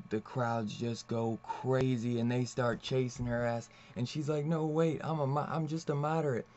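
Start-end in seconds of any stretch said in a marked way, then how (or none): 4.5-6.5 higher, hurried mock panic; panicked protest. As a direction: plead like the mob is closing in. Woman panicking as crowd chases.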